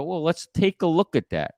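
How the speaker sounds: even, curious challenge; calm challenge. Shown as a demonstration. Consultant to employer, calmly challenging the claim. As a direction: invite them to look at the facts. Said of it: "here's a way you can do it".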